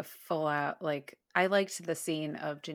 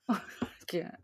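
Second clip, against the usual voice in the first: ordinary delivery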